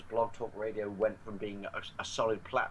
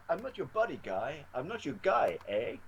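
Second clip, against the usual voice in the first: Canadian South Park quote; 5 semitones higher than usual. Retold or imitated. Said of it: "there's a scene where he goes".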